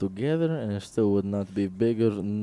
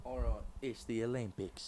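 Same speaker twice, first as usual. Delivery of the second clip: put-on British commentator; British accent; 16 dB quieter than usual. Shown as a demonstration. Demonstrating for Josh how to open, in a British accent. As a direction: start commentary in mock British. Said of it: "commentate it in a British accent".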